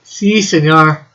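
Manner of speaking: put-on slow playful Mexican accent; drawn-out put-on Mexican accent.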